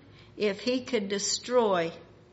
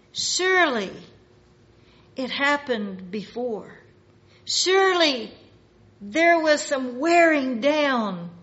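forceful preaching with loud key words; emphatic pulpit delivery; 4 semitones higher, 6 dB louder than usual. Acted. Preacher voicing forceful reasoning.

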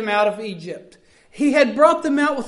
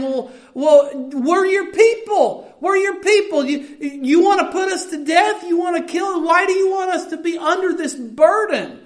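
pleading complaint; 4 semitones higher than usual. Retold or imitated. Preacher voicing Israel whining to God, pleading. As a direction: plead like a wronged child.

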